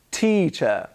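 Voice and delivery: "teacher" ending in "uh", no r; non-rhotic British "teacher"; schwa ending. Shown as a demonstration. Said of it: "The schwa sound is on the".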